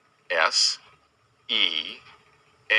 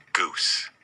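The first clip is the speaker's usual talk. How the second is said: hushed reveal of the answer; whispered word. Acted. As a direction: breathe the word out like a secret. Spelling game for young children.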